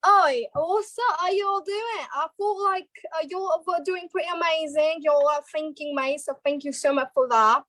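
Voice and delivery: Cockney-accented congratulations. Shown as a demonstration. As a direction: chat like a Cockney. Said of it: "And Courtney".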